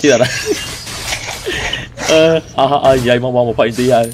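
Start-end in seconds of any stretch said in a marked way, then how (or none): 0.3-2.0 high, soft wheezy laugh; breathy high giggle. Real, not acted. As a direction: laugh with barely any voice. Laughing during game banter.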